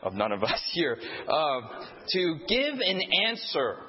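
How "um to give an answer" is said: slow, leaning on give; stress on GIVE. Shown as a demonstration. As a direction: press the word give. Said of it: "emphasize each word".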